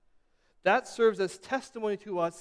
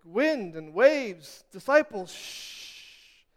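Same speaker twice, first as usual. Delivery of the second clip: calming voice; 2 semitones higher, slower than usual. Retold or imitated. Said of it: "he's like".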